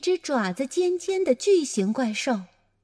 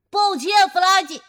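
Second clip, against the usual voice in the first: a louder, higher call of 抱歉，弗拉基; 6 semitones higher, 6 dB louder than usual. A narrator's reading. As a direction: call the apology after the monster. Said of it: "我喊道". (大声喊出的道歉)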